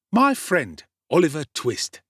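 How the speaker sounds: high, loud showy street lad; Dodger's introduction. A narrator's reading. Dodger introducing Oliver to Fagin, showy. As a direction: announce him grandly. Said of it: "said Jack Dawkins".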